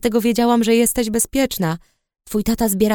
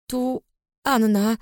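trembling voice; slower than usual. Acted. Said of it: "zaczęłam drżącym głosem".

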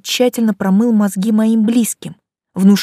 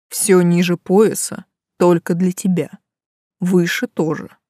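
seductive purr. Acted. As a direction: tease her slowly. Seducer's suggestive promise.

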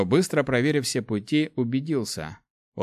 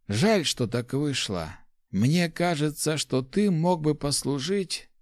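put-on higher, fond old mentor voice; old rector voice; 5 semitones higher, slower than usual. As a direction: speak as a kindly old master. Rector speaks.

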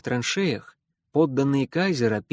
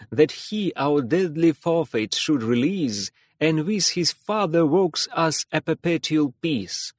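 loud declamation; 2 semitones higher than usual. Acted. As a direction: declaim it at full voice like a stage actor. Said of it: "во весь голос продекламировал прекрасные стихи".

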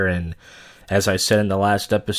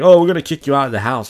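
mock threat; 3 semitones higher, 7 dB louder, faster than usual. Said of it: "they're like".

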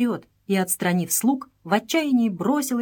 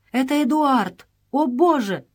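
higher, a touch louder cry of horror; 6 semitones higher, 4 dB louder than usual. A narrator's reading. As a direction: gasp out the name in terror. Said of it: "закричала от ужаса".

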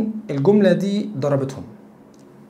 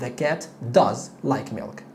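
sentence said slowly and a bit softer; slow model; 5 semitones lower, 4 dB quieter, much slower than usual. Shown as a demonstration. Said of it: "فهقول the cat does".

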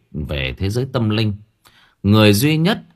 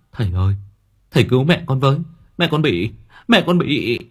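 higher, mild whimpering plea, breaking off; 4 semitones higher, faster than usual. Acted. Son kneeling, begging healer to save his mother, whimpering. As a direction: beg the healer on your knees, near tears. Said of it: "mếu máo".

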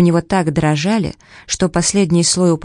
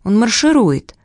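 put-on excited boy; 5 semitones higher than usual. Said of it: "воскликнул Билл".

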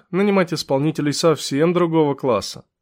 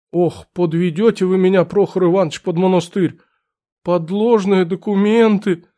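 put-on fussy old clerk. Clerk voiced.

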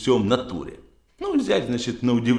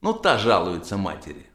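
usual speaking voice

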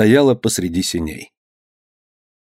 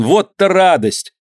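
радость; 8 semitones higher, slower than usual. A narrator's reading. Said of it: "крикнул он".

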